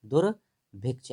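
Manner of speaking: दुर्भिक्ष said slowly, each syllable drawn out; slow spelled-out word. Shown as a demonstration. Teacher showing students how to say दुर्भिक्ष, slowly. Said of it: "ऐसे".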